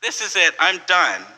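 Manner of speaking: a hint of a panicked yell; mock panicked yell. Limo driver yelling at the speeding Pope, mock panic. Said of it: "he's yelling out".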